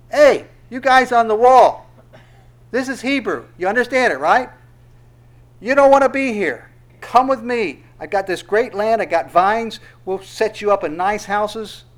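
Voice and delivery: a general shouting to the soldiers on the wall; calling up to the wall. Retold or imitated. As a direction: bellow the offer up to the wall.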